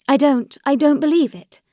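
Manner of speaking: high, emphatic denial; insistent disbelief. A narrator's reading. Dolly pleads with Alexei in the schoolroom, in insistent disbelief. Dolly again refuses his accusation.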